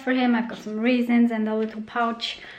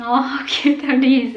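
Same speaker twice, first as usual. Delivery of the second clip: excited; 3 semitones higher, 6 dB louder than usual. Real, not acted. Cooing over baby mittens.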